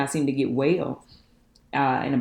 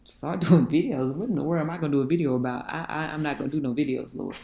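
incredulous echo. Retold or imitated. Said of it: "And I was like".

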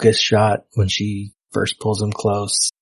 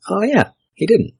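mock agreement; 9 semitones higher than usual. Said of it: "And we're like".

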